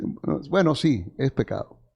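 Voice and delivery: soft, grudging "bueno, bueno" before giving in; reluctant admission. Acted. A reluctant listener quietly admits, grudging and soft. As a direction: concede quietly, as if cornered.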